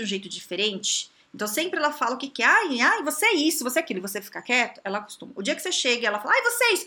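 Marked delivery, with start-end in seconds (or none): 2.5-4.0 higher, louder mock carping; imitated rude coworker. Coach acting out a rude colleague's jabs, mock carping. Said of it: "ela é grossa com você". 6.3-6.9 much higher mock nagging; imitated rude coworker. Coach acting out a rude colleague's attack, mock nagging. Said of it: "ela é grossa com você".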